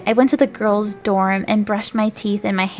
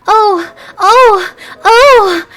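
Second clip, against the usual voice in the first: high loud hammed-up cries; over-the-top screams; screaming; 12 semitones higher, 10 dB louder, much slower than usual. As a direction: scream each oh higher. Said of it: "I screamed".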